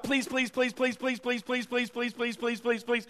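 put-on whiny pleading like a pestering child; mock begging. Preacher mocking begging prayers, whiny pleading. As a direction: pester with endless pleas. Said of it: "Prayer is not".

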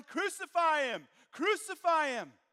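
high, loud mob shout; crowd yelling. Retold or imitated. Preacher voicing the mob before the cross, shouting. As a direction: yell it like the angry crowd. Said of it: "the person who were yelling".

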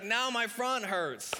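high, slow mock complaint; Roseanne Barr. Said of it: "I can't do a Roseanne Barr impression".

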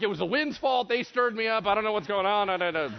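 high, loud, hammed-up excuse-making; flustered waves. Voices waves blaming the wind.

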